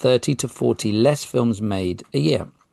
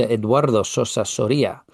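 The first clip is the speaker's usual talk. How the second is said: put-on Spanish accent. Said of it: "I don't know why I went Spanish".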